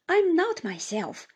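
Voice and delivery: lightly voiced weeping words; mild tearful broken plea; through sobs. A narrator's reading. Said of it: "was all I could distinguish".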